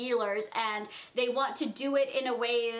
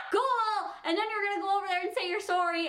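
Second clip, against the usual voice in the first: sarcastic; 7 semitones higher than usual. Real, not acted. Teasing Dalton about apologizing.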